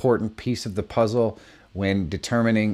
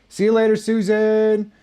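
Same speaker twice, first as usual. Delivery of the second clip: mock dismissive voice; 12 semitones higher, 4 dB louder than usual. Mock viewer leaving video.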